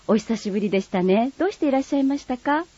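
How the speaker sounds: lightly voiced refined lady, polite standard speech; polite standard Japanese. Friend replying politely in light standard Japanese. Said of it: "標準語と鹿児島弁".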